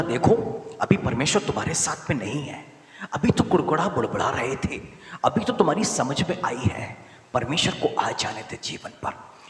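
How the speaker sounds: loud, high rebuke voiced as Moses; preacher voicing Moses, loud and pleading; Moses warning. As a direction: call out Moses's warning to the people. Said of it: "अब मूसा बोला".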